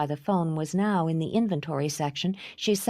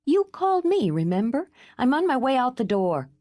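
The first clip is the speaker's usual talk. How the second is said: much higher, louder snap back; irritated; 8 semitones higher, 4 dB louder than usual. Acted. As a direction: cut her off, annoyed. Irritated reply to caller.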